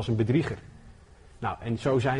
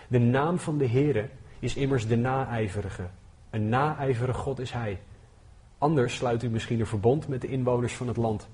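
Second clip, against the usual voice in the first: scripture reading. Acted. Continues Exodus reading.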